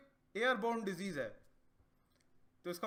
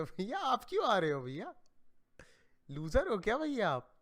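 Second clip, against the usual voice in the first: mocking little brother.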